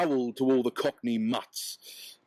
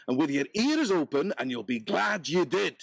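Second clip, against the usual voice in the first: higher, urging hart voice; hart's instruction; 3 semitones higher than usual. Acted. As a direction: press the instruction home.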